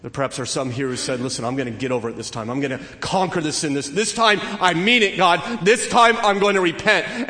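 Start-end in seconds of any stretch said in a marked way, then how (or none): 1.2-7.3 builds from quick and plain to a high, loud plea; fervent vow. Retold or imitated. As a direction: swear it louder and higher each time. Voicing a sinner's vow.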